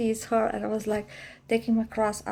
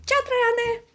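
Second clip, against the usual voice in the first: much higher, loud greeting; relieved shout; 10 semitones higher, 5 dB louder than usual. Retold or imitated. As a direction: call out in sudden relief. Jumps up, calls to groundskeeper.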